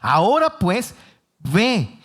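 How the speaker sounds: a hint of a scolding God; annoyed God. God rebuking Moses for excuses, mildly annoyed. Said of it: "Ya Dios empezó a molestar".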